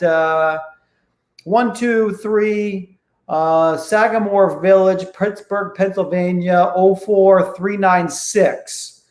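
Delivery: slow, stilted reading of the full address; screwy, unnatural sales call. Shown as a demonstration. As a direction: sound like a scripted telemarketer. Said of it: "that does not sound like how people".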